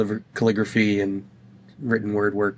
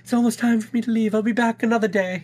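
high mock echo; 13 semitones higher than usual. Mocking the line in a voice.

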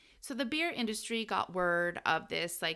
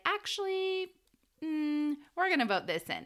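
starts much higher then settles into a teasing tone; a coy, sing-song "actually" that comes back down; mock coy reply; 8 semitones higher than usual. Congress answering the president, mock coy. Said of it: "the House and the Senate were like".

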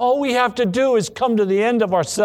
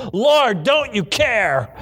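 a mildly raised, drawn-out plea; heartfelt cry; 3 semitones higher, slower than usual. Acted. Disciples crying out to the sleeping Lord, a heartfelt plea. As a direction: plead slowly, as if crying out for help. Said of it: "that cry came from the heart".

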